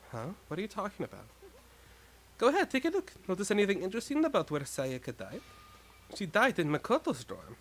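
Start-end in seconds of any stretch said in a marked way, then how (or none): 2.4-5.4 put-on higher, knowing girl; a lightly voiced sly reveal; smug character voice.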